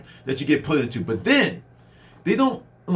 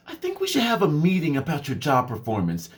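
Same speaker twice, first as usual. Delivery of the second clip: mock stern boss; 3 semitones lower than usual. Boss threatens meeting.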